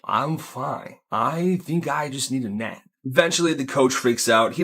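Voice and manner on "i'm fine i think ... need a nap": put-on slurring concussed kid. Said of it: "slurring his words like".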